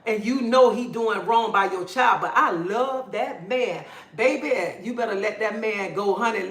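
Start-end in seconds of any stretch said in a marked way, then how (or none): 2.2-3.8 slow, dreamy imitation of a woman in denial; mock lovesick mother. Mocking mothers who stay with abusive men, slow and dreamy. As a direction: drag it out like a woman blind to her man.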